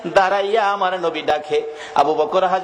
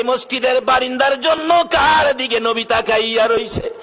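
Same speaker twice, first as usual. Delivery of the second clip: melodic preaching; 8 semitones higher than usual. A narrator's reading.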